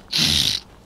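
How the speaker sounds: short, low imitated blast of noise; abrupt mouth-made whoosh; imitated loud noise. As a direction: imitate a loud game sound effect. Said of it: "They're so loud. It goes".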